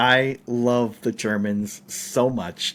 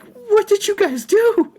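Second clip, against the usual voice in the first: far higher, slow and indignant; high-pitched old lady voice; 5 dB louder, slower than usual. Retold or imitated. Storyteller mimics the old lady confronting the film crew, high and slow. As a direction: ask it like a scandalised old lady. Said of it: "she's like".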